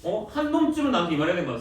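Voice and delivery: high-pitched, exasperated teacher scolding; 가벼운 꾸중. Real, not acted. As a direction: chide the class for not speaking up. Teacher scolds class for missing error. (높은 목소리로 다그치듯 꾸중)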